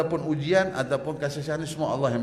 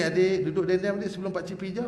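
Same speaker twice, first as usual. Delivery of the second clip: soft coaxing. Shown as a demonstration. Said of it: "Lembut-lembut dengan dia".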